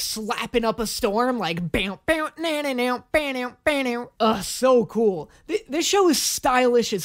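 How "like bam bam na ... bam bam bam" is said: bass imitation. Shown as a demonstration. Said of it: "that bass, like, slapping".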